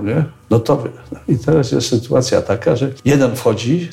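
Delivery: ordinary talk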